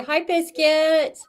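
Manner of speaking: high, slow sweet greeting to the dog; talking to a puppy. Real, not acted. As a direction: coo at the puppy, drawn out.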